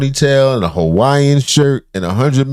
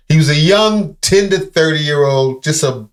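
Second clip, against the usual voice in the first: sarcastic mock; 5 semitones higher than usual. Mocking his excuse, drawn out.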